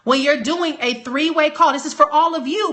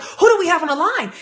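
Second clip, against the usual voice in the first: higher, hyped-up question; excited imitation; 5 semitones higher than usual. Imitating his director's hype on the call, excited. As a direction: pump up the question with energy. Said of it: "His energy is like".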